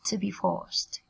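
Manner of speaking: "forced" ending in a T sound; final T sound. Shown as a demonstration. Teacher corrects the ending, forced finished with a T. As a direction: say forced as "forst", closing on T. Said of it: "các bạn đọc thành âm th cho cô".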